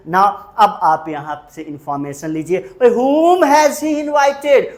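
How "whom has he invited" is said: WHOM drawn out high and loud, the question slow; stress on WHOM. Shown as a demonstration. Teacher modelling the question about who was invited, stressing WHOM. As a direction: stretch and punch "whom", then fall.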